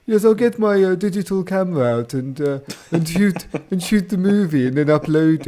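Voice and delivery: mock posh pirate, starting high and loud, easing down. Pirate boasting of his digital camera, mock posh voice. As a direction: fuss along as a pirate gone posh. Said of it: "They're all going".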